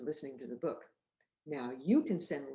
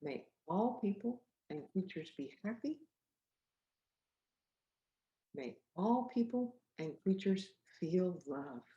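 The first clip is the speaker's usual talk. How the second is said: gentle recital; 3 semitones higher than usual. Shown as a demonstration. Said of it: "We can say that together".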